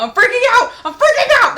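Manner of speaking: high, loud fangirl scream; mock hysterical concert scream; screaming, freaking out. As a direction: shriek it like an overwhelmed fan, laughing. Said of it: "of me screaming and freaking out".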